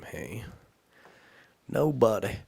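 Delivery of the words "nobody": loud clipped answer; bright messenger reply. Acted. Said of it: "said the messenger".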